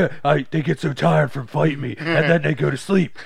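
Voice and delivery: high, loud innocent put-on voice; naive Penguin impression. Clueless Penguin explaining about his victims, imitated naive voice.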